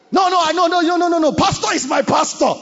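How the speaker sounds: mock indignant insistence; whiny insistence. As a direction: protest like a clingy member. Insisting member mocked.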